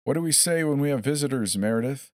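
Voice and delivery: high, sing-song coaxing; mock sweet coaxing. A narrator's reading. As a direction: talk down to her like a child. Captor coaxing woman like a child.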